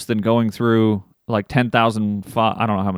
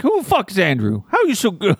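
high, incredulous mock voice; mocking baffled racer; 8 semitones higher than usual. Imitating the go-kart guy stunned by Andrew, high and incredulous. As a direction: play the amazed go-kart kid. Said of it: "I'm like that guy that works at the".

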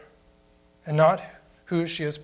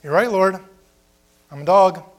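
louder, eager "You're right, Lord"; eager agreement; 3 semitones higher, 7 dB louder than usual. Acted. The woman humbly agreeing with the Lord, louder and eager. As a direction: fling out the admission gladly. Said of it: "She's saying".

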